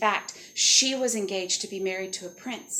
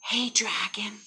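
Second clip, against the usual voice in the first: hushed, breath-light hail; tentative call; slower than usual. Acted. Tiptoed up to sleeping dragon.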